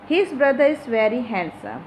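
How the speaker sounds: "His" leaned on at the start; stress on His. Shown as a demonstration. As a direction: put the weight on the opening "His". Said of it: "Here his is the emphasizing adjective".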